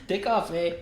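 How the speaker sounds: mock Canadian through laughter; laughing Canadian. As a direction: laugh the line out.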